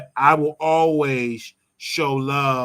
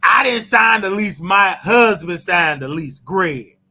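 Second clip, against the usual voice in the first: raised, higher indignant shout; mock protest; 3 semitones higher, 6 dB louder than usual. Host imitating Nene denying the lease, loud and high. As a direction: yell the excuse in a defensive voice. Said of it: "Nene Leakes are saying".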